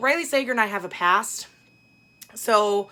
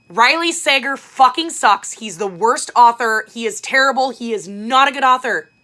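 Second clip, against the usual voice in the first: shouted high and loud, slowed right down; loud declaration; 4 semitones higher, 10 dB louder than usual. Real, not acted. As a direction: bellow it so the back row hears. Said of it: "I'm gonna say it loud for those of you in the back".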